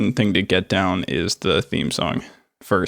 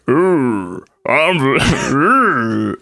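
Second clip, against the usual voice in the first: cartoon zebra voice; 3 semitones higher than usual. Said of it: "He's like".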